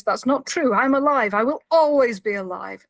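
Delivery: half-shouted protest, emphatic; retold shouting. Prisoner denying his death to Kira, shouting. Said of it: "And shouting again".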